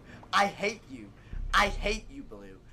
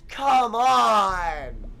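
frustrated shout; 5 dB louder than usual. Real, not acted. Shouted plea.

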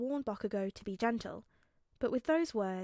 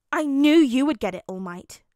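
loud, higher, delighted burst, easing on the name; grinning praise; 4 semitones higher, 14 dB louder than usual. A narrator's reading. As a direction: burst out with a pleased grin. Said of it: "Bakugo praised with a grin".

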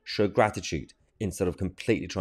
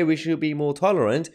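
higher-pitched echo of their claim; raised voice, setting up a retort; quoting back accusingly; 5 semitones higher than usual. Retold or imitated. Host quotes back opponents' claim.

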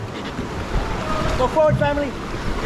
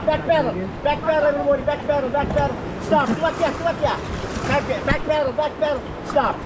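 raised calls over the river noise; shouting over rushing water; 5 semitones higher than usual. Real, not acted. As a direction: bark it over the rapids. Guide calling back paddle.

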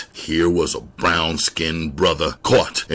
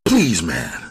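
mild pleading whimper; understated frightened begging; whimpering plea. Acted. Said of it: "more whimper than voice".

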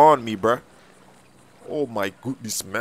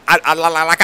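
nervous stammer; stuttering; 3 dB louder, faster than usual. Acted. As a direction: stumble over the words. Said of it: "you stuttering".

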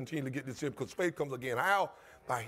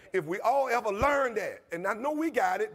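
louder and higher, passionate preaching; fervent raised preaching voice; 4 semitones higher, 5 dB louder than usual. Real, not acted. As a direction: lift the voice with passion. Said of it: "if I raise my voice".

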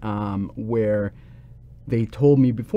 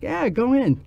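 much higher, breezy go-ahead; shaman's answer; 13 semitones higher than usual. Retold or imitated. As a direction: toss off a light high yes. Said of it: "And the guy's like".

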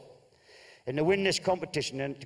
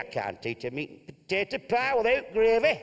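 a raised, blustering northern husband; gruff Bolton husband; 6 semitones higher than usual. Acted. Telling Martha he won't eat Spanish food. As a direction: bluster like a fussy holidaymaker.

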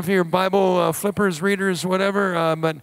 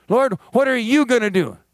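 louder, pleading shout at heaven; mock shout; 5 semitones higher, 6 dB louder than usual. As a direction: demand it of the sky. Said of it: "How many people are shouting that at heaven?".

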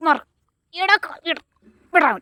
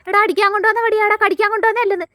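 raised, higher scolding; scolding the dog; 5 semitones higher than usual. Real, not acted. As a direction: tell the dog off sharply. Scolding dog biting the stick.

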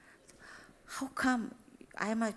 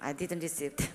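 laughing rueful; 4 semitones lower, 5 dB quieter than usual. Real, not acted. Laughing at her loss.

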